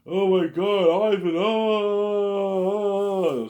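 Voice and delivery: high, loud mock wailing; hammed-up wailing cries; imitating a woman crying out loud. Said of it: "V J's crying out here".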